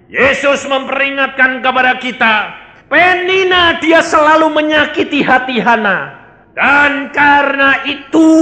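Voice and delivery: emphatic sermon delivery; forceful preaching. Real, not acted. Preacher warning the congregation about Penina and Hana, emphatic preaching. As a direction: press each phrase home to the congregation.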